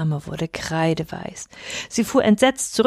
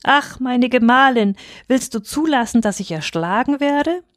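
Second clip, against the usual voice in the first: pained cry; 6 semitones higher than usual. Acted. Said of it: "dass er vor Schmerz aufheulte und schrie".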